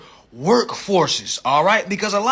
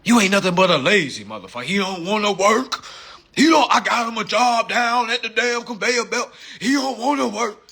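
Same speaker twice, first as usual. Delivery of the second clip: scolding coworker who builds to a shout; mocking coworkers; 2 semitones higher than usual. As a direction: jeer at the lazy guy until you yell at him. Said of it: "all the workers always tell you".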